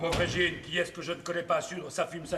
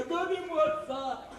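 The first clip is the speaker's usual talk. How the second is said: higher, slow teasing "gardez-moi ça"; drawn-out teasing repeat of "gardez-moi ça", higher; teasing drawl; 8 semitones higher, slower than usual. Acted. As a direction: stretch "gardez-moi ça" out slowly, mocking.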